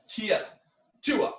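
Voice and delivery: sharp high shouted kiai; karate yell. Shown as a demonstration. Instructor demonstrating the karate yell. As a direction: shout each count from the gut. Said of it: "Or if you can yell".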